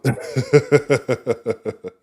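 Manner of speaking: helpless chuckling fit; long laugh. Real, not acted. Host breaking up at a viewer's stupid comment, long laugh.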